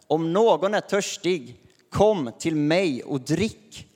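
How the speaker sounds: slow, loud proclamation to the crowd; calling out. Acted. Jesus calling to the festival crowd, slow and loud. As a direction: call it out slowly like Jesus at the feast. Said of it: "stod Jesus och ropade".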